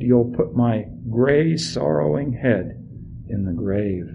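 put-on an old man refusing through his grief; a hint of a heartbroken old father; grieving father.

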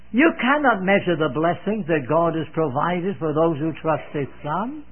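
low, tender pulpit appeal; loving. Real, not acted. Preacher assuring believers of God's provision, loving. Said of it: "Can I say lovingly".

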